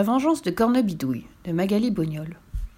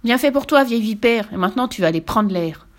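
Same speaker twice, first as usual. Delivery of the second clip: put-on triumphant boy; 2 semitones higher, 4 dB louder than usual. Boy triumphs over witch.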